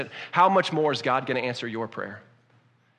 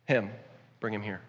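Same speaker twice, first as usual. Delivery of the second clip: with a sigh, softer and lower, gently call him over; softly calling the blind man closer; hushed tender command; 5 semitones lower, 6 dB quieter than usual. Acted. Jesus calls for Bartimaeus.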